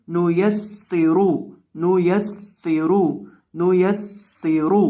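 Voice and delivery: नुयस्सिरु with a hissing, whistling double s, slow; whistled seen. Shown as a demonstration. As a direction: let the s in नुयस्सिरु whistle sharply. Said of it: "सीटी की आवाज़ पैदा करके पढ़ेंगे नुयस्सिरु".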